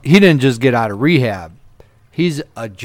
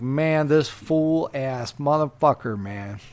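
soft, slow muttered grumble; muttered insult; 8 dB quieter, slower than usual. Retold or imitated. The driver muttering about his passenger, soft and slow. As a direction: grumble it under your breath.

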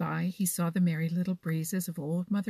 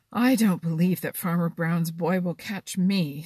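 confident boast; 7 dB louder than usual. Acted.

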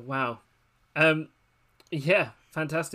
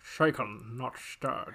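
Bond catchphrase; 2 semitones lower, 3 dB quieter, much slower than usual. Acted. Bond quote in impression game.

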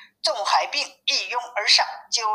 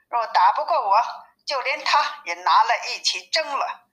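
angry; 3 semitones higher than usual. Acted. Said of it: "心中大怒".

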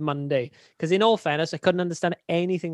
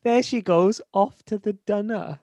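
mimicked Kiwi vowels, higher pitched; imitated New Zealand accent; 4 semitones higher, slower than usual. Mate repeating what he misheard, imitated New Zealand accent. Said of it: "I genuinely thought you said".

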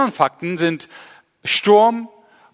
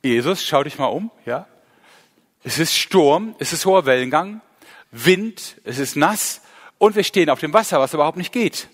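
mock protest; 2 semitones higher than usual. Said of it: "weil ich hätte gesagt".

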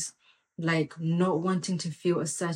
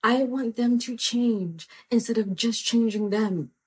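raised pitch, pressed harder; louder emphatic repeat; 4 semitones higher than usual. Shown as a demonstration. Preacher repeating the line to drive it home, louder and higher. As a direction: say it again with more force. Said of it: "Come on".

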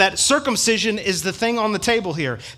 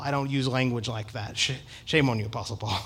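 mock scolding; 6 semitones lower, 7 dB quieter than usual. Teasing scolding of Paul.

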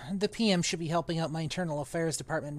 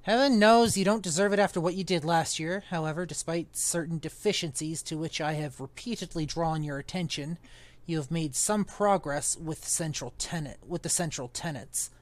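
put-on pompous old magician; 5 dB louder than usual. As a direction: sniff at it like a stuffy old master. Reads Underwood's lines in character.

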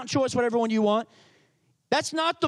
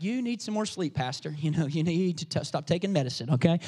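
Trent's brushoff; 8 semitones lower than usual. Retold or imitated. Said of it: "He's like".

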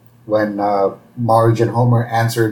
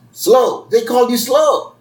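tag; 11 semitones higher than usual. Retold or imitated. Homer's thoughts realize the insult.

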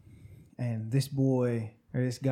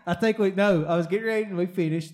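laughing; 7 semitones higher, 7 dB louder than usual. Real, not acted. Laughing while recalling.

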